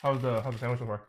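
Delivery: talking with a mouth full of food; mumbling through a mouthful. Real, not acted. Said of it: "mumbling 'cause too much food in my mouth".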